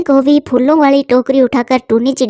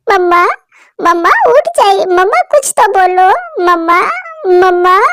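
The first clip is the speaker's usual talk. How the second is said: tearful pleading; 6 semitones higher than usual. Acted. Child pleading with dead mother.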